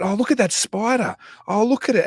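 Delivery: hammed-up spider tease; mock teasing. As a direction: taunt him with a fake spider. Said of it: "We said".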